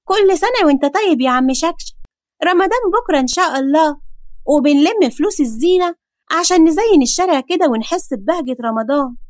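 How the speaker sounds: put-on a boy asking for Ramadan money; boy's voice. Boy voice higher.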